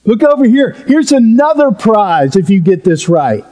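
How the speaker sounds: preacher doing a mock game show host unveiling a prize. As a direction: play the host teasing the next curtain. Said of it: "it's almost like a game show".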